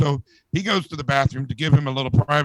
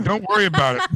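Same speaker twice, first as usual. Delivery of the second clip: laughing punchline repeat; 3 semitones higher, faster than usual. Retold or imitated.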